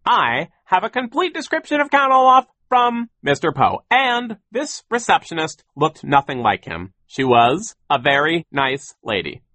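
loud, high, insistent explanation; self-important, emphatic rebuttal; pompous boss. A narrator's reading. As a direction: insist with blustering certainty. Sir insists receptionist is nice.

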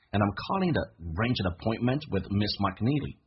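and I'm calling to arrange an appointment with Miss McNeely said at speed, linked; 加快语速朗读. Shown as a demonstration. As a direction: pick up the pace. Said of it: "加一点速度".

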